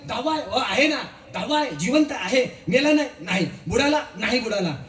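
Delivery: put-on the boys laughing with joy that the tenth lives; laughing with relief. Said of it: "ती हसायला लागली".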